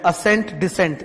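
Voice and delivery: असेंट rising, then डिसेंट falling; iki sözü ayırarak. Shown as a demonstration. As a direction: set असेंट apart from डिसेंट, first up, second down. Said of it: "दो शब्द बोल रहे हैं".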